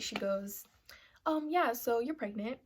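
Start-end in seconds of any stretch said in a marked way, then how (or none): 1.3-2.6 casual. Retold or imitated. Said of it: "she just casually says it".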